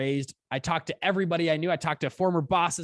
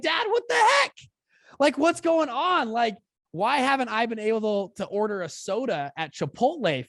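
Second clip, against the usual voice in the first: much higher and louder, half-shrieking in shock; indignant disbelief; 8 semitones higher, 3 dB louder than usual. Retold or imitated. Son confronting his rich dad, high mock outrage. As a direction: demand answers like you've been cheated.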